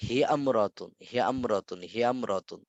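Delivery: "হিয়ামরাতুন" repeated as one unbroken word; joined pronunciation. Shown as a demonstration. Teacher drills the silent alif, "হিয়ামরাতুন" said joined. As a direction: drop the "i" of ইমরাতুন, saying "হিয়ামরাতুন". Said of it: "এটা উচ্চারণে আসে নাই".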